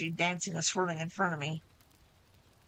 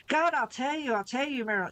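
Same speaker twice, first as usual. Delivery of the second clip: panicked pleading; 6 semitones higher than usual. A narrator's reading. Beaten Ace begs Meryl to stop, panicked higher pleading. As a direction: babble it out to stop the next kick.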